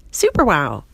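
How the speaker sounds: loud, impressed outburst; amazed exclamation. Acted. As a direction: exclaim it at full wonder. Steve marvels at her new looks.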